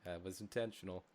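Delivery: a strange, stilted take on That was intentional; oddly said. Real, not acted. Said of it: "I don't know why I said it like that".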